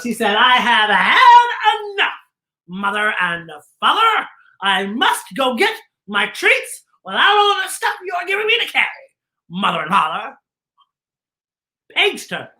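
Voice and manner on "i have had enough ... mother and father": mock tantrum. Frankenstein protests to parents.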